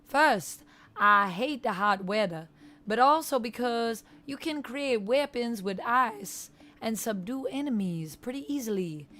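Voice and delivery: lilting put-on Cajun dialect; Gambit, Cajun accent. Streamer as Gambit reading out viewers' messages, in Cajun accent. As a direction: keep up an amateur Cajun impersonation. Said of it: "I gotta be doing this impersonation".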